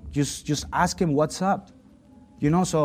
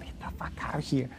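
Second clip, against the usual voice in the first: dismissive; 9 dB quieter than usual. Retold or imitated. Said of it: "He was trying to say".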